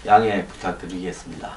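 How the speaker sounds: numb mouth after dental anesthesia; slurred, numb lips from anesthesia; numb from the dentist. Real, not acted. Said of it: "아직 마취가 안 풀려서 발음이 좀 시원찮다". (마취가 덜 풀린 입으로 말하기)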